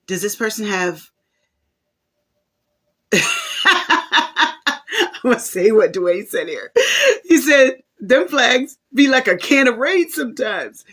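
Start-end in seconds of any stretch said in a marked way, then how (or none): 3.1-3.2 louder and higher, words broken by laughter; laughing through it. Real, not acted. Host reads Dwayne's comment to viewers, laughing through it. 3.3-5.2 high, rising burst of real laughter; laughing out loud. Real, not acted. Host cracks up at Dwayne's comment, high rising laugh. 5.2-10.8 louder and higher, words broken by laughter; laughing through it. Real, not acted. Host reads Dwayne's comment to viewers, laughing through it.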